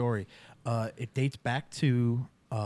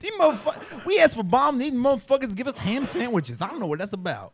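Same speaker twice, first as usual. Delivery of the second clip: mock Black-German accent; 10 semitones higher than usual. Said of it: "How'd you like my, uh, Negro German accent?".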